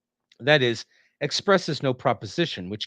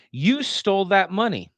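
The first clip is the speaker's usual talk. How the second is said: "You stole that money" raised high in shock; tone of horror; 8 semitones higher, 4 dB louder than usual. Shown as a demonstration. Teacher showing the tone of horror, raised high. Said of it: "in a particular tone of horror".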